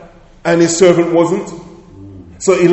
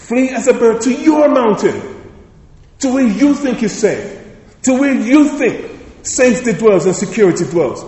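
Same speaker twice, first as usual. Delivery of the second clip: raised and higher, scornful, leaning hard on each you; mocking the advice; 4 semitones higher than usual. Preacher scorning the advice to flee to safety, mocking. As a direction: throw their advice back at them with scorn.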